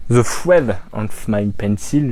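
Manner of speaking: French-accented English title. Shown as a demonstration. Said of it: "j'ai un accent terrible".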